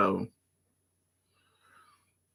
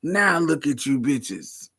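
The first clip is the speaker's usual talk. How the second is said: put-on slow, higher, loud old auntie lecturing; old lady voice; 5 semitones higher, 5 dB louder, slower than usual. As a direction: scold like a crotchety old aunt. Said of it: "I live for saying".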